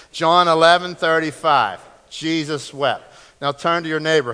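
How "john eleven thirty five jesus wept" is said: loud, firm group recital; leading a recitation. Shown as a demonstration. Preacher has congregation try the verse together, loud recitation. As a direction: call it out for the room to join. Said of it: "Try it with me again".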